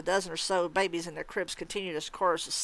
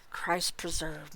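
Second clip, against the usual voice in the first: swearing; 2 semitones lower, 6 dB quieter, much slower than usual. Acted. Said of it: "Michael swore".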